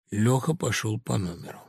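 ordinary delivery, nothing marked

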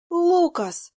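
high, loud outraged shout; indignant cry. A narrator's reading. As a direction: snap his name in outrage. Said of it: "возмутилась я". (возмущённый громкий высокий окрик)

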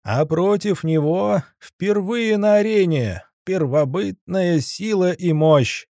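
high, drawn-out arena announcer bellow; booming ring announcer. Acted. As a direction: call it out to the whole arena. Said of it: "надрывался Заяц в микрофон".

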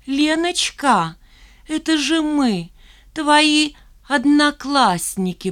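high, slow syrupy sing-song; sing-song mocking. A narrator's reading. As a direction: coo it sweetly and falsely. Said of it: "пропела Шмакова".

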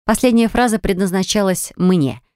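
usual speaking voice

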